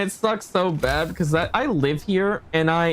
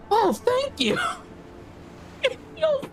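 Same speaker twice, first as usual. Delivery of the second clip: sarcastic thanks; 4 dB quieter than usual. Real, not acted. Cold weather warning read out.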